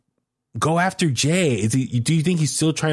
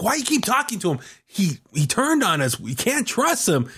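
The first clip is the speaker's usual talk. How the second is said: imitating angry Jimmy; 9 semitones higher than usual. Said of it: "Jimmy's like".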